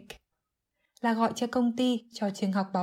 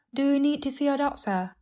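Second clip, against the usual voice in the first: lightly acted higher-pitched friend asking; concerned friend; 5 semitones higher than usual. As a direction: ask in a higher voice, as the other caller. Replays the friend's question. (giọng người bạn hỏi thăm, cao hơn)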